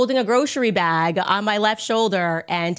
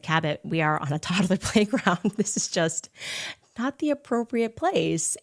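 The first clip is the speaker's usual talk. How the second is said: calm firm reminder; 4 dB quieter than usual. Retold or imitated. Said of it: "reinforced to him".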